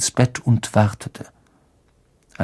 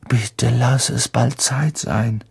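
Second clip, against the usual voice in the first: sad thought; 3 dB quieter, slower than usual. Acted. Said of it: "dachte Harry betrübt".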